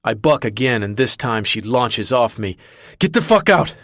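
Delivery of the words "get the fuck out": furious bellow, much louder and higher. Acted. Marcus throwing the woman out, bellowing. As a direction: roar her out of the room. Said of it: "I bellow".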